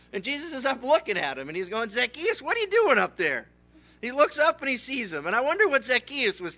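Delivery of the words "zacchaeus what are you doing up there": raised, higher call to someone up a tree; acted call from below. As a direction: call up to him, surprised to find him there. Jesus calls up into tree.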